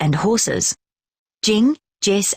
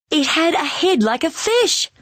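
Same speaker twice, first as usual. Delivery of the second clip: high, muffled voice from inside a costume; 10 semitones higher than usual. A narrator's reading. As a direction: speak as if through a costume head. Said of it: "says Tom in a muffled voice".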